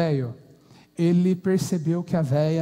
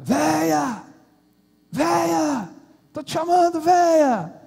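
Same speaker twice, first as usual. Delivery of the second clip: high, loud calls across the house; shouting for his wife; 8 semitones higher, 4 dB louder, slower than usual. Acted. Old man calling his wife from the yard, shouting. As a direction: bellow her name from far off, getting louder. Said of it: "O velho começou a gritar de longe".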